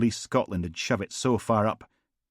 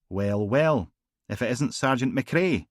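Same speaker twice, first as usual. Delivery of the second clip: mock-delighted inspector, a bit louder; Singh's sardonic greeting; 5 semitones higher, 4 dB louder than usual. Inspector taunting Logan at the graveside, mock delight. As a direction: sardonic detective inspector greeting an old rival.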